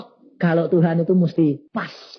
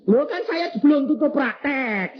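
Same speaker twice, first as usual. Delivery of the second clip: indignant protest; 10 semitones higher than usual. Retold or imitated. Retorting to laughing wife.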